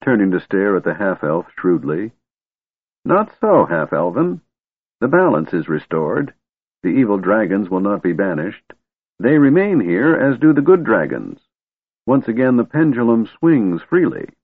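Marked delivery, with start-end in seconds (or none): 3.0-14.3 put-on grumpy old wizard.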